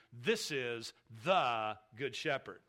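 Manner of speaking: "the" stressed, slow, falling to "good shepherd". Shown as a demonstration. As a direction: land on "the", slowly. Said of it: "A definite article means definitely".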